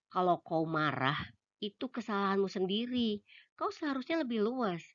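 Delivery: a loud scolding tirade, pitch climbing; blaming voice. Acted. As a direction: throw the blame right back at her. Imagined blaming message he hears.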